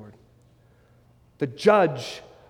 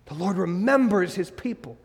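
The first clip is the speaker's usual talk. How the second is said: softer restatement. Shown as a demonstration.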